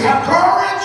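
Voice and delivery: high and loud, "courage" stretched; loud high urging. Shown as a demonstration. A preacher urging his congregation, high and loud. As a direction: call it out. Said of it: "What he's actually saying is".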